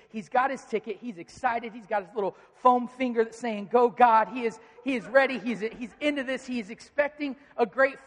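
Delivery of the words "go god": a loud cheer for the home team. Pretend. A fan in the stands cheering God on, loud cheer.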